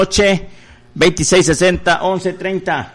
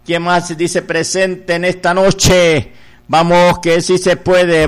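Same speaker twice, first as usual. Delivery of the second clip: insistent chanted appeal on a nearly level tone; rally the faithful, rattling off phone numbers in repetitive cadence; fundraising preacher's exhortation. Real, not acted. Preacher urging God's people to call in a voluntary offering, insistent chanted exhortation. Radio preacher rallies listeners for donations.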